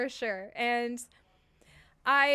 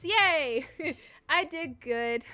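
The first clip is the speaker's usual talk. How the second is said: higher, louder giddy yay; excited cheer; 4 semitones higher, 4 dB louder, slower than usual. Real, not acted. Streamer cheers at praise from chat, giddy and loud.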